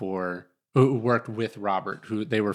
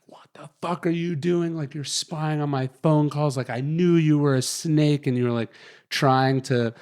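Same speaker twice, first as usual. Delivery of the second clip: higher, mock-furious accusation; ranting boss; 4 semitones higher than usual. Retelling the boss bursting in to accuse him of spying, mild mock rant. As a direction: rant at him like the angry boss, partly imitated. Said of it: "whatever he's ranting".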